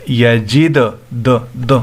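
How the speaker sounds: bounced, echoing d at the end of یجد; یجد then "duh, duh" with a springy release; qalqalah. Shown as a demonstration. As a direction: make the د rebound like an echo. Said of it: "ایکو sound کی طرح ادا کرنا".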